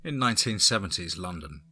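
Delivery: exaggerated Cockney storyteller; Cockney accent. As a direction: lay on the Cockney, East End London. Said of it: "I brought forth my Cockney".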